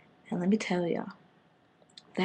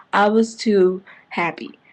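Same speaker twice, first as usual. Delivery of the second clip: gleeful; 5 dB louder, slower than usual. Real, not acted. Delighted reaction.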